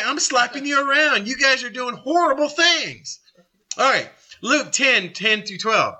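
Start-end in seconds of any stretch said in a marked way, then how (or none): 0.0-3.2 raised-pitch acted telling-off; scolding. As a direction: dress them down, leaning on "horrible". Acting out Jesus rebuking the towns.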